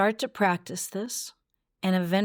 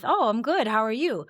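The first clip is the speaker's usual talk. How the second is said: surprised clerk's reply; 4 semitones higher than usual. Acted. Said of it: "when they respond to you with".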